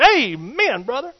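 high, loud fervent amen. Acted. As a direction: answer the preacher with zeal. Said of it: "He said".

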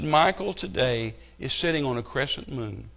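slow, soft, dreamy quoting of the actress; a hint of a gushing mourner, slowed down; lightly mocking a tearful celebrity tribute; mock sentimental tribute. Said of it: "And she said".

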